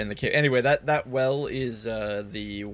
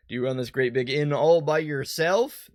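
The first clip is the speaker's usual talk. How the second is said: patronizing; 3 semitones higher, 4 dB louder than usual. Acted. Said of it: "That sounds so patronizing".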